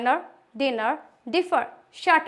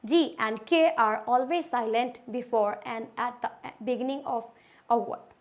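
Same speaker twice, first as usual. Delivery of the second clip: slow rule reading; much slower than usual. Shown as a demonstration. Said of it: "rule number nine".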